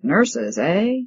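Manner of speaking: mild mock of his sneering question; imitating the janitor. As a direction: parody the janitor lightly, close to her own voice. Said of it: "imitating his voice".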